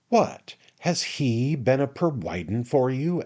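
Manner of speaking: "What" punched high, then an emphatic question. A narrator's reading. Sam asks Job who provided, emphatic on "What". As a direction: hit "What" hard and press the question. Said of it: "asked Sam emphatically".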